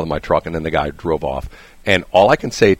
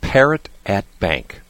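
slow announcement; slower than usual. Real, not acted. Reading list item out deliberately.

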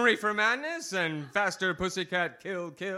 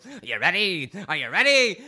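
getting louder, jeering; building taunt; 6 dB louder than usual. Acted. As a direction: ramp the taunt up.

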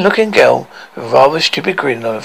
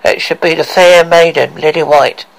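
spooky mirror voice; 5 dB louder than usual. Acted. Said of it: "ghostly face and a spooky voice".

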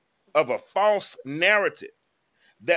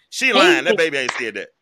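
indignant outburst; 7 dB louder than usual. Real, not acted. Incredulous outburst at the caption.

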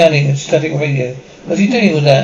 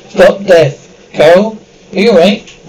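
otherworldly voice, louder; alien voice; 2 semitones higher, 5 dB louder than usual. Acted. Alien healing the dying woman, eerie commanding voice.

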